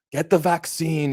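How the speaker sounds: a hint of an Australian accent, slow; mock Australian read of the line; light Australian accent. Imitating Andrew Bogut reading a script, light Australian accent. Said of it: "in his Australian accent".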